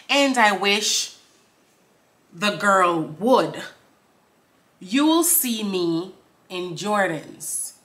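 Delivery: very slow bars, long gaps; deliberate lyric recital. Acted. Reciting lyrics for viewers, very slow and deliberate. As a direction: stretch each phrase and pause.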